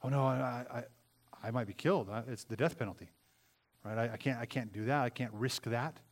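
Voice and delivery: hint of frightened Esther pleading. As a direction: lightly voice a scared queen. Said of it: "And she's afraid".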